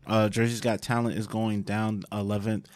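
talking through a mouthful of food; words round a bite of food; mouth full. Real, not acted. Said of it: "food in my mouth".

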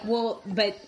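a badly faked British accent; a hint of British accent, hammed up. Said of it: "this is gonna be a very bad British accent".

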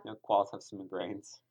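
soft unvoiced whisper. Real, not acted. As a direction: breathe it as a secret. Whispered aside to cohost.

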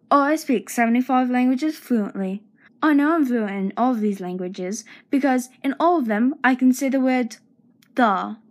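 mock British accent, hammed-up; badly faked British accent for a joke; put-on accent. The speaker showing off voices to listeners, in a put-on British accent. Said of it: "I like doing voices, such as".

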